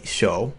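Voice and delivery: "shou" with a long hissed sh; stressed sh sound. Shown as a demonstration. Teacher stresses the sh in "shou" for learners. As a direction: lean on the sh of "shou". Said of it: "emphasize the S H sound".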